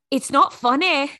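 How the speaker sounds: high, loud imitation of a little girl; little girl impression. Quoting the girl with drawn-on glasses, high mock wail. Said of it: "reminds me of the other little girl".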